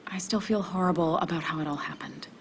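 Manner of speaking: hushed, ashamed whisper; guilty whisper. Acted. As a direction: barely voice the confession. Confessing guilt to ex.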